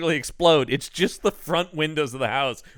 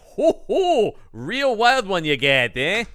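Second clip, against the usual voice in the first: much higher, louder, slow leering guffaw; Ralph leering; 6 semitones higher, 4 dB louder, slower than usual. Retold or imitated. Ralph teases Jeremy about the wild one, slow and leering. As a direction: ham up a nudging buddy. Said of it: "And he's like".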